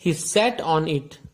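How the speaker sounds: very slow, deliberate reading of the riddle; slow question read. Shown as a demonstration. Teacher reading the riddle aloud to the class, very slowly.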